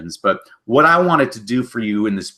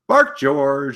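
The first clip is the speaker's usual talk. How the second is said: mama dog; 6 semitones higher than usual. Acted. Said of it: "mama dog talking to her puppy".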